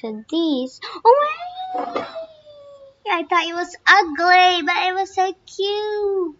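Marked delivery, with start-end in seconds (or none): 1.1-2.1 surprised gasp. Real, not acted. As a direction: gasp in delight. Surprised at new look.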